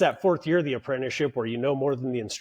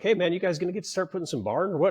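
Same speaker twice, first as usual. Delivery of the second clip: quick, pushy foreman's nudge, a bit higher; impatient superintendent; 6 semitones higher, much faster than usual. Retold or imitated. Superintendent prodding the idle apprentice, fast and impatient. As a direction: hurry the kid along, half-annoyed.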